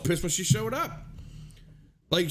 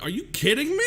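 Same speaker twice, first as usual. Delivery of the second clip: high, laughing retold disbelief; incredulous; 6 semitones higher, 4 dB louder, faster than usual. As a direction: re-enact disbelief, pitch jumping up. Retells disbelief at the cops' ride.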